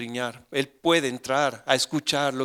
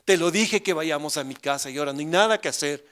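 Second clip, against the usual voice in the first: reclamo angustiado; 4 semitones higher, 5 dB louder than usual. Retold or imitated. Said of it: "habrá estado gritando".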